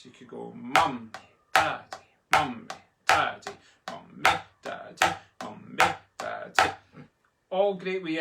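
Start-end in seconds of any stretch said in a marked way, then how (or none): 0.5-6.7 rhythmic chant of "mummy, daddy" with punched syllables; measured drum-exercise chant, "mummy, daddy"; mummy-daddy drill. Shown as a demonstration. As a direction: shift the hit within "mummy" and "daddy". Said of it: "do them as mummy daddies".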